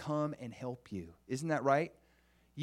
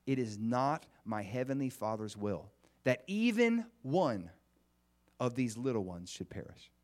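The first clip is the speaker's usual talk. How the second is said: slow scripture reading; 2 semitones lower than usual. Retold or imitated. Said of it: "he says".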